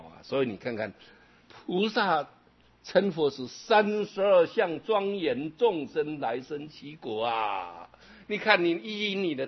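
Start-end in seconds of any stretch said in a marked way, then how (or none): 1.5-7.9 slow recited verse. Acted.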